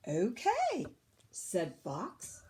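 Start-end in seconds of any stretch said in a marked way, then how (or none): 0.1-0.8 meek fox. A narrator's reading. Fox replies.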